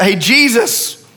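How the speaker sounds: mild voiced cry of frightened disciples; crying out to Jesus. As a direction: plead with Jesus, half desperate. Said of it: "they begin to, to cry out".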